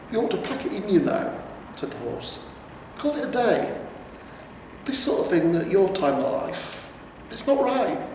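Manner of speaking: put-on a nervous old horse fussing at his master; fretful talking horse. Horse voiced in story.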